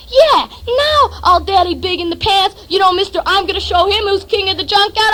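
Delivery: acted taunt, pushed harder at the start; mocking goad. Narrator daring his friend to act, goading.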